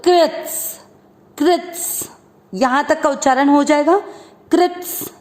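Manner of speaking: कृत्स with the स clearly attached; half स added. Shown as a demonstration. Teacher drilling कृत्स for students. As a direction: join स to कृत. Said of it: "तो कृत को बोल दो".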